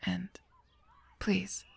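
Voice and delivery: ordinary talk, nothing marked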